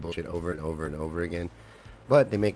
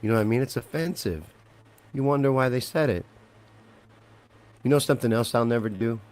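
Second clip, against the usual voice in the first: offended; 4 semitones higher, 5 dB louder than usual. Real, not acted. Offended rant peak.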